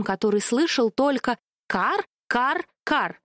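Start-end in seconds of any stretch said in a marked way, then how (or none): 1.7-3.2 crow-like caws in a strange voice; just caw at him. A narrator's reading. Human hears only cawing. (карканье)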